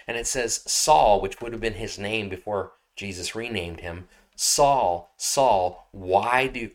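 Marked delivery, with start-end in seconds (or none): 0.7-1.2 loud, commanding call; voice from heaven. Acted. Jesus calling Paul on the road, commanding. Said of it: "it's this voice that only Paul can hear clearly". 4.4-6.7 loud, weighty calling of the name; voice from heaven. Acted. Jesus confronting Paul on the road, commanding. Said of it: "it's this voice that only Paul can hear clearly".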